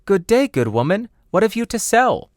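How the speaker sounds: sweet and curious from the window; high young girl's voice; Snowdrop. Acted.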